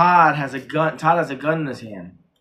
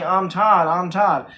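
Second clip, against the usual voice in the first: mild, higher-pitched imitated yelling; mock yell; 4 semitones higher, 3 dB louder, slower than usual. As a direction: imitate two people yelling, held back. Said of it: "they're both yelling".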